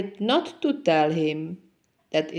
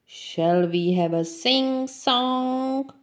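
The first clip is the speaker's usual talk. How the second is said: slow, high lion calling through a megaphone; 7 semitones higher than usual. Acted. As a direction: boom it out over the plain.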